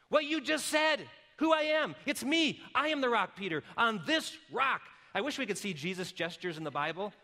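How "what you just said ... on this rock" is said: loud, high, ringing proclamation; fired-up shout. Acted. Preacher as Jesus telling Peter, shouted.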